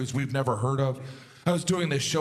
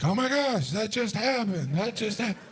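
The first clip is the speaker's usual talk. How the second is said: stunned disbelief; 7 semitones higher than usual. Retold or imitated. Stunned reaction to fleeing bear.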